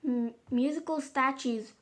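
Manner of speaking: a mom brightly launching the next party game; bright announcement. A narrator's reading. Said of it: "announced Mom brightly".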